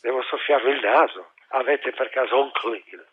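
blocked-nose voice from a cold; stuffy nose. Acted. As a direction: talk through a stuffy nose. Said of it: "scusate, sono raffreddato". (naso chiuso, voce raffreddata)

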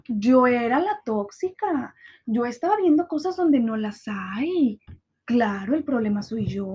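slow, drawn-out sarcastic emphasis. Retold or imitated. Mocking the ex's claim she was toxic, slow and sarcastic. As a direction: savor each word mockingly.

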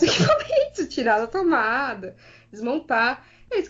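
usual speaking voice

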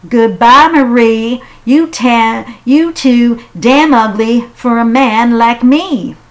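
high, loud taunting voice; loud mocking farewell; mocking rejection. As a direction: brush her off with a sneer. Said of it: "old Handsome Jack said".

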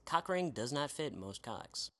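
rapid legal fine print; fast disclaimer. Acted. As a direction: rattle off the small print.

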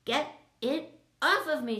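high, loud panicked shriek; screeched. A narrator's reading. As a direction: shriek it while running in panic. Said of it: "she screeched".

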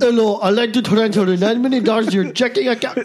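scam pitch in put-on Indian accent; mock Indian accent. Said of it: "Go ahead, do an accent".

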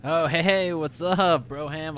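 hearty greeting. Acted. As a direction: hail a new pal with big energy. Player greets blacksmith in character.

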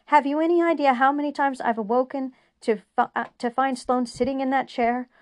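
loud, high-pitched angry tirade; furious rant. A narrator's reading. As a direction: pour out every grievance, shouting. Julian's furious rant at counselor.

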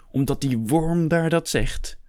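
high, slow incredulous sneer; indignant question, drawn out with contempt; scornful outrage. Acted. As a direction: throw it back with scorn. Hector scorns Miguel's proposal.

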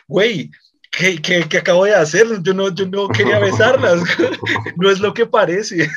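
flustered, rushed denial, half laughing; mock-panicked excuse to the father; panicked protest. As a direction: blurt it out like you've been caught. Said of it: "y yo dije".

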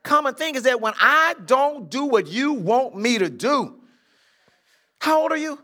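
slow, loud, exasperated; mock exasperation. Real, not acted. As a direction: drag it out in playful annoyance. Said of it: "I told you I get angry".

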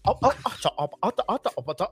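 babbled imitation of British speech; mock British accent. Host mimics the actor's interview, mock British babble. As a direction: mimic British chatter without real words. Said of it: "That dude had an interview".

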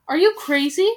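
loud incredulous shout; scornful cry. Acted. Bald veteran scoffing at the crowd, loud incredulous cry. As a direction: ring out over the crowd. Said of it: "the source of the cry".

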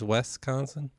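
Wisconsin leaning towards WES-consin; demonstrated mispronunciation. Retold or imitated. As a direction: show Wisconsin with eh in the first syllable. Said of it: "You say Wes a little more".

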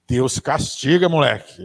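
slow, loud scolding; mock scolding a naughty child; stern threat. Preacher imitating a parent scolding a child, slow and stern. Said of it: "olhava bem na carinha dela e dizia assim".

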